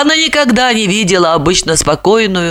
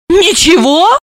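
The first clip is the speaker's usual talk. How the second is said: indignant; 10 semitones higher, 4 dB louder, slower than usual. A narrator's reading. Сестра возмущена.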